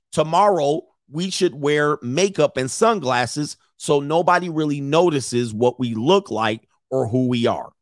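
slow, spaced-out reading of a message; deliberate read-aloud. A narrator's reading. Commentator reads leaked chat to viewers, deliberate read-aloud. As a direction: read it out slowly, word by word.

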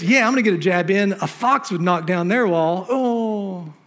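lightly voiced chihuahua getting a jab in; sneering little sidekick. Tobiah trying to sound cool while taking a jab, lightly mocking. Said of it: "And this is his".

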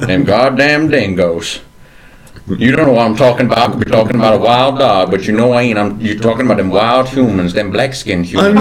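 lightly voiced old Southern gentleman, gruff; a hint of a cranky Southern colonel scolding; mild drawling Southern old-timer. Southern gentleman character continues.

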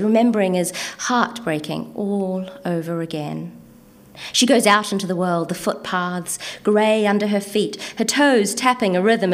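lilting spoken-word storytelling; measured verse recital for a listening audience; poetry reading. Acted. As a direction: recite her story in rhythmic phrases, each opening lifted and easing down. Reads poem about a woman.

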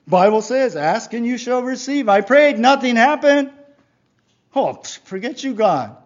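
loud, high-pitched protest building to exasperation; indignant rant. Acted. Believer whose prayer got nothing gives up on God, exasperated. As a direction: throw a fed-up fit at heaven.

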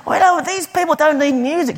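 high-pitched imitated Macedonian accent. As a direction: imitate an insistent old Macedonian lady's accent. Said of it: "doing it in this kind of Macedonian accent".

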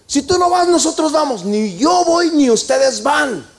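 David standing his ground against his men; firm refusal. Acted. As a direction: se niega con firmeza.

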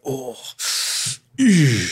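put-on old man groan. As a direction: groan like an aching old man getting out of a chair. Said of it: "like an old man walking about the house".

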